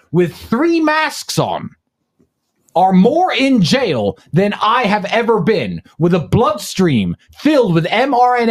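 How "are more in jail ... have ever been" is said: slow, more leaned on hard; slow emphatic. Real, not acted. Host proclaiming to listeners, slow and emphatic. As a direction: hammer the point home slowly. Repeated defiant refrain.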